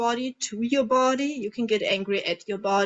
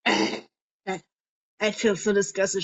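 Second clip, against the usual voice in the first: disgusted groan. Shown as a demonstration. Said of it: "you might make a disgusted face".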